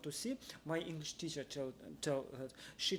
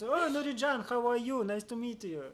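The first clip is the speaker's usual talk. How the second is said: friendly greeting; 6 semitones higher, 5 dB louder than usual. Retold or imitated. Coworkers' greeting retold.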